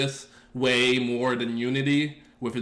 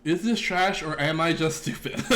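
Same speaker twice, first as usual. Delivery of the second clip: higher, laughing on the last words; laughing self-doubt; 4 semitones higher than usual. Retold or imitated. Streamer repeating his inner debate to chat, laughing. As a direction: tease yourself with a chuckle. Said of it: "I get that debate with myself".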